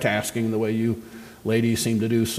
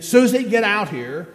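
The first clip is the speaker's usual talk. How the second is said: high, loud call across the house, slowed; mother calls her daughter from the kitchen; mother yelling; 7 semitones higher, 3 dB louder than usual. Acted. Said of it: "So she yells at Susie again".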